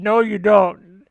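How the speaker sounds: a dad shutting it down, slowly; dad's flat denial. Retold or imitated. Dad refusing squatting kid, slow firm reply.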